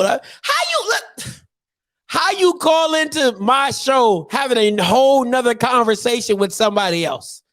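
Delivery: host venting at the caller, exasperated; exasperated outburst. Real, not acted. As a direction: vent at the rude caller.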